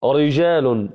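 "رجال" with a thick, velarized ر; full-mouthed heavy ر in "رجال". Shown as a demonstration. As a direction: wrongly darken the r at the start of "رجال". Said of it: "إذا كانت مفخمة".

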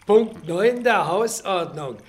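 loud opening, settling into rule-reading; official recitation. Acted. Janitor reciting house rules to former pupils, officiously.

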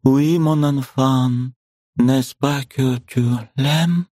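медленный ласковый французский; спроси дочь нежно; мать ласково. A narrator's reading. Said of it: "проговорила Варвара Павловна". (медленно, нежно, по-французски)

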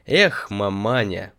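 slow, savouring exclamation; drawn out like a plunge; with relish. Acted. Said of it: "с удовольствием произнёс, как бы бросая в некий омут". (с наслаждением, протяжно)

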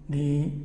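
دي as a stopped consonant in place of j, long ī; jīm hardened. Shown as a demonstration. Teacher showing the over-stopped fault, hard stop in دي. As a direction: harden the ج into a stop, vowel held. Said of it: "لا تعطش فتكون كافا مفخمة".

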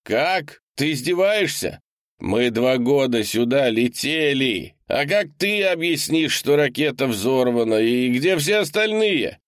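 freezing man outside begging to be let in; desperate shouting man. A narrator's reading. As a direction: pound on the door with your voice. Leonardo arguing through the door.

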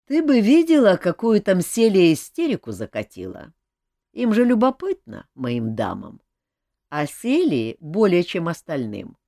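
a hint of the amused king; lightly voiced king, amused. King tells Olga about the ladies, lightly voiced. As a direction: talk like a relaxed king. King's figure voice, long run.

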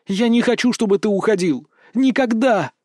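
high-pitched echo of a plea; remembered protest. A narrator's reading. Berta's words echo in the mage's mind, high and pleading. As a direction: replay the cry high, a little restrained.

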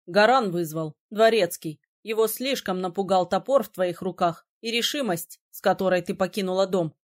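a hint of a surprised young man; lightly voiced prince. A narrator's reading.

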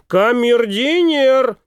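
high, slow drawn-out call; calling the valet. A narrator's reading. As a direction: summon the valet across the carriage. Summoning the valet.

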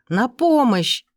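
shouting for rescue while being carried off; shout for help. A narrator's reading. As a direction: yell for help. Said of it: "завопила Сельма".

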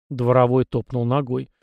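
usual speaking voice

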